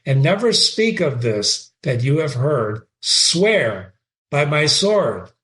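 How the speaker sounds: reading Shakespeare aloud with feeling; dramatic reading. Acted. Teacher reading Horatio to the class, dramatic reading. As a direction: give Horatio's line a lively read. Reads Hamlet's speech.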